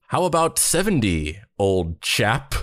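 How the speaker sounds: mock old-chap British accent. Manager countering the duo's demand, mock British accent. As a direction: put on a hammed-up British gent. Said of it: "not even the type of British accent".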